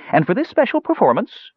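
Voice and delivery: high, kindly sales pitch. A narrator's reading. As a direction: sweeten the offer in a lifted voice. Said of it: "he quickly added in a kindly voice".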